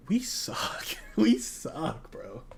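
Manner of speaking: breathy whisper of defeat. Real, not acted. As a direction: whisper it like a confession. Despairing whisper about team.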